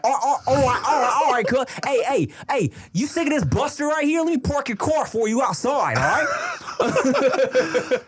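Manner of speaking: high, hammed-up American accent; high-pitched exaggerated American street talk; thick American accent. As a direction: show off a cartoonishly American voice. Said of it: "it's a thick American accent".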